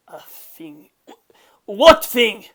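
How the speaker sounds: baffled villain pressing; confused demand. Acted. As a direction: demand to know what thing.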